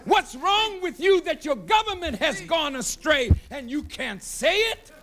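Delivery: shouted rebuke with rising anger; preacher scolding the nation for its silence; fiery preaching. Acted. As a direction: demand answers from the crowd. Rebuking the audience.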